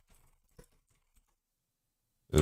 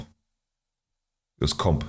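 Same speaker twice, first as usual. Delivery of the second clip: slow, lower, stretched out; stretched-out low mumble; drawn out; 5 semitones lower, much slower than usual. Real, not acted. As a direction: drag every word out lazily. Second take drawn out.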